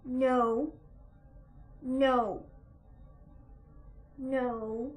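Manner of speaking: loud, firm correction to a pet; each no a firm command; firm scolding. Real, not acted. Owner stopping a kitten climbing, firm scolding.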